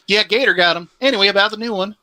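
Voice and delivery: a pretend customer asking the shelter for a new dog; mock shelter exchange. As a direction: play a clueless dog buyer. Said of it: "Didn't we just get you a dog".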